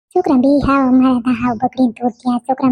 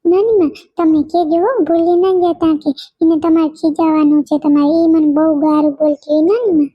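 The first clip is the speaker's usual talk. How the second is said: put-on lightly childlike nagging reminder; child pleading; 3 semitones higher than usual. Little girl reminding granny to scold the other girl, mild childlike pleading.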